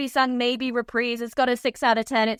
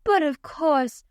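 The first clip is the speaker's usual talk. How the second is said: fake humble; slower than usual. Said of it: "snatches the check just ever so lightly".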